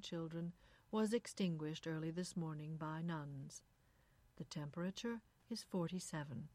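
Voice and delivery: lightly voiced smooth newsreader; suave radio announcer. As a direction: read the news smoothly, giving nothing away. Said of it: "was suave and noncommittal".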